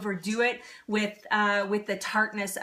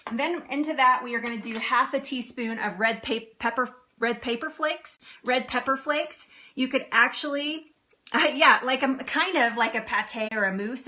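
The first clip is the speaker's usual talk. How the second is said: ordinary talk, nothing marked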